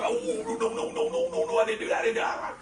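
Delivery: high squeaky protest; flustered denial. Retold or imitated. Accused church woman denying the gossip to the pastor, high squeaky voice.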